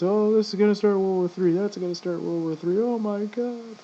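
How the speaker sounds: lightly high mocking panic; a hint of hysterical doom talk; mock panicky people. Mimicking panicky people online, lightly high. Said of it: "you know how people are nowadays".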